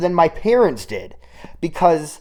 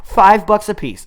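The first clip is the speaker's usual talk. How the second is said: excited; 7 semitones higher, 5 dB louder than usual. Real, not acted. Repeating the price in delight.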